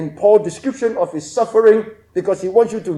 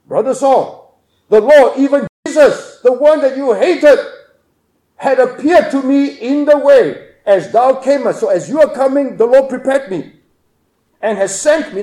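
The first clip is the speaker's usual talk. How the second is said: raised, louder earnest appeal; fervent Ananias; 4 semitones higher, 4 dB louder than usual. Acted. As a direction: proclaim it to Saul with conviction. Preacher voices Ananias speaking to Saul.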